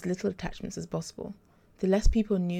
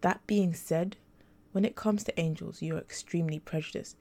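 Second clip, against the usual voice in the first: lightly gentle, understated; gently. Acted. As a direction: soften it as if breaking bad news kindly. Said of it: "he said gently".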